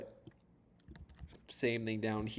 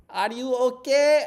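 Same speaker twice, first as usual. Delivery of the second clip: much higher and louder, slow mock call; concerned lady; 13 semitones higher, 14 dB louder, slower than usual. Pretty Russian ladies calling to the swimmer, high mock shout. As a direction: call out high and drawn out from a boat. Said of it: "the pretty Russian ladies would always be like".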